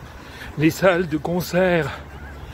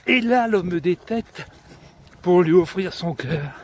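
measured storytelling verse with deliberate pauses; declaimed comic poem; poem recitation. Acted. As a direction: recite a droll verse tale, phrase by phrase.

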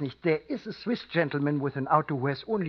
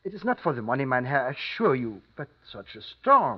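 put-on innkeeper with a thick German accent; formal, polite German-accented English; 2 semitones lower than usual. Innkeeper warns about the storm.

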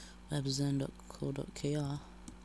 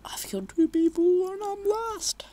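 whisper; 8 dB louder than usual. Real, not acted. Mid-match commentary.

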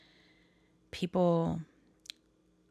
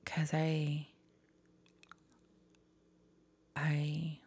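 whisper; 4 dB quieter, much slower than usual. Real, not acted. Quiet confession.

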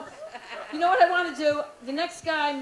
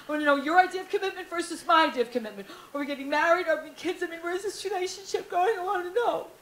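needy relationship rant; 3 semitones higher than usual. Acted. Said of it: "what I really mean is".

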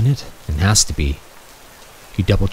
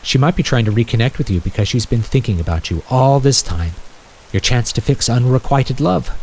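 a little sarcastic; 5 semitones higher than usual. Acted. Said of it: "She says it a little sarcastically".

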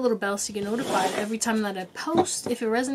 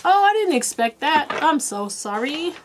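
taken-aback apology; 5 semitones higher, 3 dB louder than usual. Retold or imitated. Reader recalls apologizing to a crying client, taken aback. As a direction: re-enact a startled, sheepish sorry.

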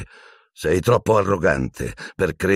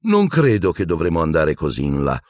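silky, coaxing. Acted. Teacher threatening captive with Dementors, silkily taunting. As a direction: toy with the captive sweetly. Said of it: "disse Piton suadente".

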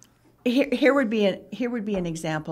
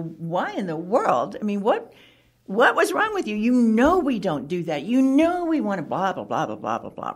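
mock scolding; 4 dB louder than usual. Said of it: "go up and say afterwards".

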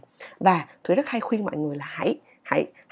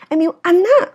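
"anh á" pitched high and loud at the end; stress on ANH; 9 semitones higher, 8 dB louder than usual. Shown as a demonstration. Teacher insisting it is you, stress on ANH. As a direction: save the lift for "anh á". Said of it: "mình muốn nhấn mạnh vào từ anh".

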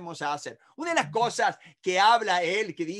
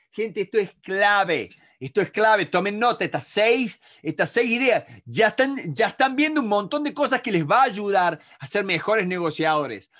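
emphatic teaching; 6 dB louder than usual. Real, not acted. Enfatiza punto clave a alumnos.

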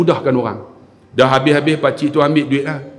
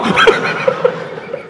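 ketawa. Real, not acted. Ketawa selepas jenaka.

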